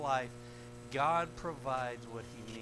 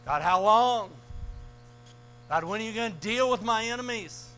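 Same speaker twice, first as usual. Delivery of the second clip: pleading lament; 8 semitones higher, 11 dB louder than usual. Acted. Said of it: "David does it a lot".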